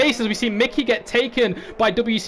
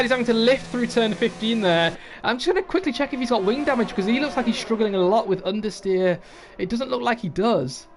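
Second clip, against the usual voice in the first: motorsport commentator; 2 semitones higher than usual. Acted. Live race play-by-play.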